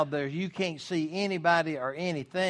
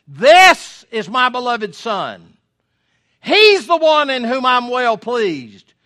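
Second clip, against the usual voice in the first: much higher and louder, booming from the cloud; the Father correcting; 6 semitones higher, 11 dB louder than usual. Acted. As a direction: thunder a divine rebuke at Peter. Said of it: "the Father's way of correcting what Peter just said".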